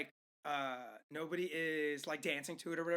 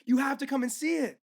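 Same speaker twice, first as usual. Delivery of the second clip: put-on high-pitched crazy old lady, insisting; mock insistent pleading; 6 semitones higher than usual. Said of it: "she grabs by the shoulders".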